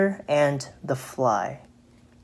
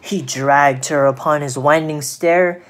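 emphatic storyteller at the climax; expressive poem reading for children; dramatic story narration; 4 dB louder than usual. A narrator's reading. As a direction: punch out the action of the tale. Narrates the spider's pounce.

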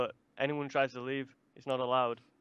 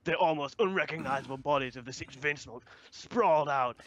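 dramatic villain reading. Acted. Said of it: "She's like".

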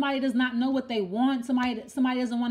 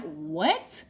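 shocked; 8 semitones lower than usual. Retold or imitated. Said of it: "and you're completely shocked".

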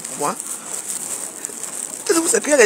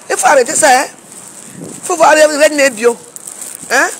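firm angry demand; 4 semitones higher, 4 dB louder than usual. Real, not acted. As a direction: put your foot down, word by word.

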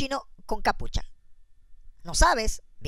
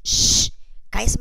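slow whispered shush; hushing whisper; 3 dB louder, much slower than usual. Acted. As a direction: hush her so the baby keeps sleeping. Kid hushes mom, baby sleeping.

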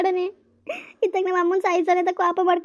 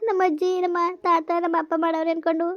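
tearful lament. Acted. Wife laments alone, weeping.

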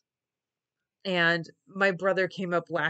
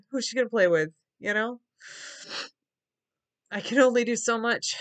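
tearful; 4 semitones higher than usual. Real, not acted. Upset about sick daughter.

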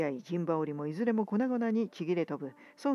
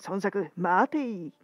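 slow, loud drawn-out call; shouted challenge; 4 dB louder, slower than usual. A narrator's reading. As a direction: bellow it slowly from above. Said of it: "という叫び".

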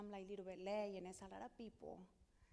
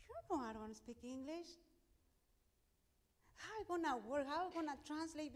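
anxious prayer; 8 semitones higher, 6 dB louder than usual. Retold or imitated.

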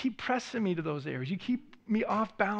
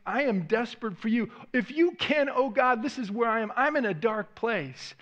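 desperate prayer; 2 semitones higher than usual. Pretend. Voiced desperate prayer to God.

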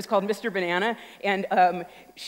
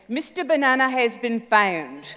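phone announcement; 3 semitones higher, 4 dB louder, slower than usual. Retold or imitated. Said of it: "the phone rings".

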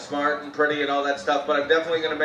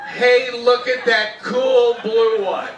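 mock casual remark; 4 semitones higher, 4 dB louder, slower than usual. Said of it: "moved me to say".

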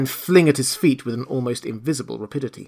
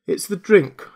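dismayed realisation; 7 semitones higher, 4 dB louder than usual. A narrator's reading. Marvel blames drink, first time.

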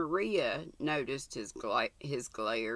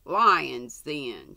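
put-on much louder burst, a child's shout; 8 dB louder than usual. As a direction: shout it back at them. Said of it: "shouted Jim".

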